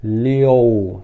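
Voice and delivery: "liu" drawn out with an o glide, like "li-ou"; slow "liu" with an audible o inside; o in the middle. Shown as a demonstration. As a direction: stretch "liu" to sound like "li-ou". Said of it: "como se tivesse um o no meio".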